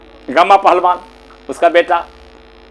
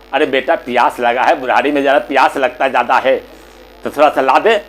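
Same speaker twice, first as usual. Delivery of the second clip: low, coaxing mother voice; lightly voiced apologetic request; pleading old mother; 4 semitones lower, faster than usual. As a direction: plead mildly with an irritated son.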